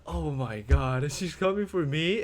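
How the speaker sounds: slow, drawn-out oh-no realization; mock dread. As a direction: retell the panic sinking in, half-serious. Retelling his dread at mom's arrival.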